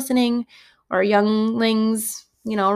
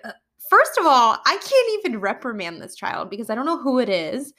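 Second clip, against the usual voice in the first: higher-pitched, mildly exasperated retelling; exasperated teacher; 3 semitones higher than usual. Retold or imitated. Teacher unable to tell which child cussed, exasperated. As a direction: act out being at a loss.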